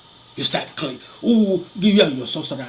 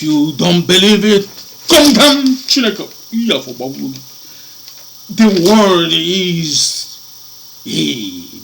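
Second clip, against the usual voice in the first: voice not his own; 7 dB louder, slower than usual. Real, not acted. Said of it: "Because it's not me talking".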